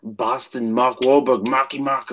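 half-hearted attempt at a Boston accent; unsure, rough stab at Boston talk; bad Boston accent. Shown as a demonstration. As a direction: try a Boston accent and do it badly. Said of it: "really fucking bad representation of it".

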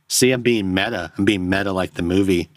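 sarcastic; dry sarcastic tone. Real, not acted. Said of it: "now I'm sounding sarcastic".

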